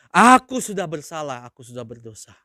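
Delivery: humble confession. Acted. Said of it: "langsung bilang apa?".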